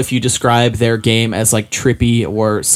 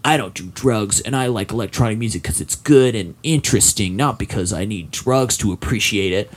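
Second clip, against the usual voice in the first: softer, self-mocking voice of earnest protest; adamant teen self; 2 semitones lower, 5 dB quieter than usual. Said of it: "very adamant".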